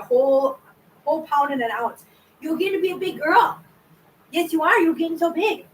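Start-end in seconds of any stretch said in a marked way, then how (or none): 2.4-5.7 sweet pet-talk voice. Real, not acted. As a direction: coo at the little one. Cooing to the kitten.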